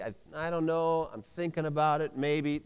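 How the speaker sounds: soft, hesitant waffling; half-hearted, wavering reply; noncommittal. Shown as a demonstration. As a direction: hedge softly, unable to decide. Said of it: "that's not a choice".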